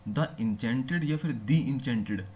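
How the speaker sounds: slow, द इंचेंटेड said twice, first as the, then as thee; two pronunciations. Shown as a demonstration. Teacher to students asking which way द is said, slowly. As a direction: spell out द इंचेंटेड slowly, comparing the two sounds of द. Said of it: "वो है द इंचेंटेड pole".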